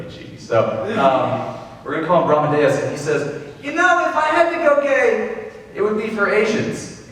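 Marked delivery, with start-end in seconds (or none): 3.6-7.0 high, dopey bro, higher all through; mock dude voice with a big pitch jump. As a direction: play the clueless friend blurting it out. Friend Brahmadeus quoted by teller.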